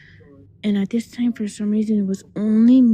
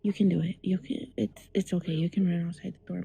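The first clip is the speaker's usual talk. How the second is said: self-reassurance; 2 semitones lower, 7 dB quieter than usual. Retold or imitated. Child telling herself she can run past the door, quiet self-reassurance. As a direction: quietly talk yourself into it. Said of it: "I'm telling myself".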